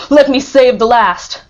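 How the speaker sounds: loud, slow, urgent plea; desperate plea. A narrator's reading. Count pleading to save the last. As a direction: beg to save the last one. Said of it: "he cried".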